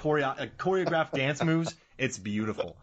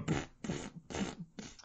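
pff smacking noises; 4 semitones higher, 10 dB quieter than usual. Retold or imitated. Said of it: "he's just going".

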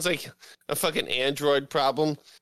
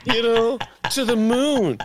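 mock know-it-alls; 6 semitones higher, 3 dB louder than usual. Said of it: "And people are like".

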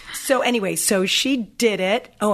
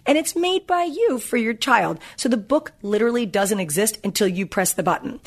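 ad read. Acted. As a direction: sell it like a podcast ad. Sponsor ad read.

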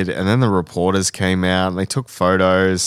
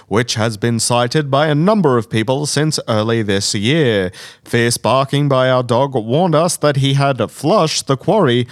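1950s narrator; 5 semitones higher than usual. Acted. Reads old newspaper quote.

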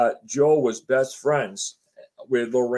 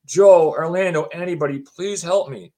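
mock scream, loud start then easing off; retold scream for help; 4 semitones higher, 5 dB louder than usual. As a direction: imitate a desperate cry, higher but controlled. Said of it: "you hear this bloodthirsty scream".

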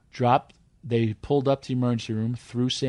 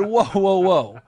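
stunned whoa; 8 semitones higher, 7 dB louder, slower than usual. Retold or imitated. Promoter stunned by the story.

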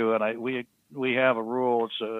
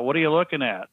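mild mock yell, slightly raised; retold yell; 4 semitones higher, 4 dB louder, faster than usual. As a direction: imitate a sergeant calling out, toned down. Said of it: "And he yells out".

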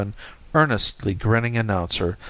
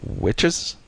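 breathy whispered question rising high; a hint of fear in a high whisper; apprehensive; 8 semitones higher than usual. A narrator's reading. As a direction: ask it under your breath, uneasy. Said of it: "looked at him apprehensively".

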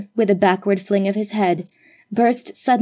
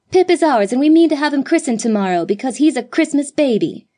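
defiant; 6 semitones higher, 3 dB louder than usual. A narrator's reading. Girls defiantly claim the baby.

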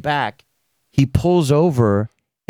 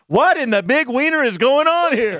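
much higher, incredulous exclamation; mock outrage; 12 semitones higher than usual. The host retelling his own shocked comment, high mock outrage. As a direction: act scandalized for laughs. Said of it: "I was like".

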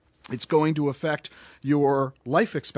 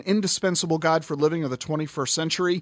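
upbeat radio promo read, a bit louder; 4 dB louder than usual. Acted. Host plugging his book to listeners in an ad read. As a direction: sell the book like a radio spot.

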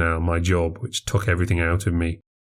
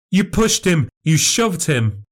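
high, raised accusing voice; angry sister; 10 semitones higher than usual. Acted. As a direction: throw it back at her, outraged. Claire's accusation continues.

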